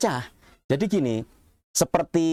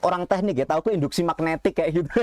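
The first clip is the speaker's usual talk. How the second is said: speaking with a cigarette between lips; talking while smoking a cigarette; cigarette in mouth; 4 semitones higher, faster than usual. Real, not acted. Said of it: "Sambil ngerokok, Mas".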